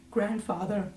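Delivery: very high, building to a loud hammed-up cry; mock dramatic plea. Daughter begging grandfather to punish her, hammed-up rising cry. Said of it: "Not Grandpapa. Like".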